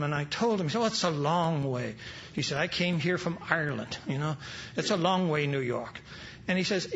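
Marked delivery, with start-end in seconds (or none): 0.8-6.0 lightly voiced Irish priest, lower, dropping low on "New York"; a touch of Irish brogue. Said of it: "in his Irish brogue says".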